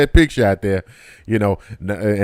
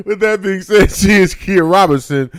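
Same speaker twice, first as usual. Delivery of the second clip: high, shouted host call; shouted announce; 6 semitones higher than usual. Shown as a demonstration. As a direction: belt it out to the audience.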